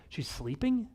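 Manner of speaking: high, mocking disbelief; mock-incredulous repeat. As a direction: echo it back as if it's absurd. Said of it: "it's wildly insensitive".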